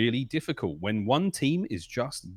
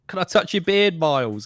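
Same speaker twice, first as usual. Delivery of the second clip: higher, louder eager fan voice; mock eager fan, pitched up; imitating a fan; 7 semitones higher, 7 dB louder than usual. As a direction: play an eager fan asking. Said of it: "they're like".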